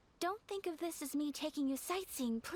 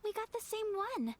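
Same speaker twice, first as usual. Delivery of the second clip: higher, delighted cry; thrilled at the coincidence; excited disbelief; 5 semitones higher than usual. Acted. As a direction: Ayaka learning she drew the same fortune as Paimon, higher and excited. Same fortune as Paimon.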